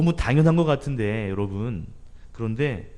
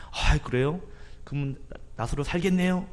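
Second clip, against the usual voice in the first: hopeful question; 4 semitones higher than usual. Retold or imitated. Thomas's hopeful reaction, high.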